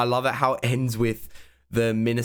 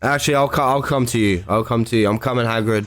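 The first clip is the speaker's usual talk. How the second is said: excited cheering; 3 semitones higher, 7 dB louder than usual. Real, not acted. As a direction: coax him in like a proud fan. Cheering Hagrid on screen.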